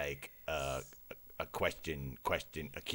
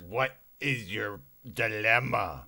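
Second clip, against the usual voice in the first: loud scolding; 7 semitones higher, 12 dB louder than usual. Acted. Mock outrage at partner.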